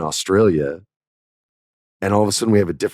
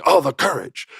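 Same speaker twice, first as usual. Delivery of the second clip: higher, gushing imitation of fans; mock admiration; 7 semitones higher than usual. Everyone praising James Gunn's remark, mock admiring. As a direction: swoon over it sarcastically.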